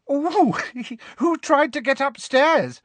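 high, happy squeal with a giggle; giddy high-pitched giggling; giggling girls. A narrator's reading. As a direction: tease gleefully in a very high, girlish giggle. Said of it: "they giggled happily".

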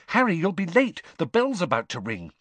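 worried schoolgirl warning; lightly voiced Hermione. A narrator's reading.

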